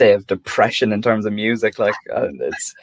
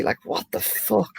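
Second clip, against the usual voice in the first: incredulous; 10 semitones higher, 7 dB quieter than usual. Real, not acted. Outraged at Nazi company.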